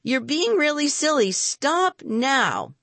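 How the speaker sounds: high-pitched scolding yell. A narrator's reading. Boy yells at the bluebottle to stop, yelling. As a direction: yell it up high without full volume. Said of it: "then yelled".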